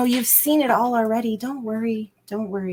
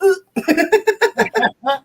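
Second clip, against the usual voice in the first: mock ooh; 11 semitones higher, 4 dB louder than usual. Reacting to inner voice.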